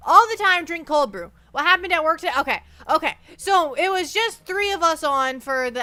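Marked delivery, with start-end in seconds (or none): 0.1-1.3 louder, higher "All the time"; loud insistence. Real, not acted. Streamer insisting chat drink cold brew, loud. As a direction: push it like a rallying cry. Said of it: "Always drink the cold brew".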